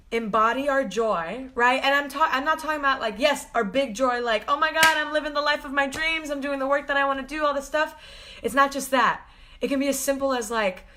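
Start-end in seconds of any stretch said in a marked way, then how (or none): 4.5-8.0 excited. Retold or imitated. Mock quote of big joy.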